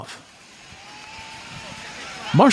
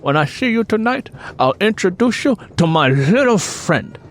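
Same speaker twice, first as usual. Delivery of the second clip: higher, hushed put-on Scarface voice; Tony Montana impression; 9 semitones higher than usual. A narrator's reading. Marshall teasing Stacy in a hushed Tony Montana voice. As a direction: play the gangster into her ear. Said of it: "began mimicking the character".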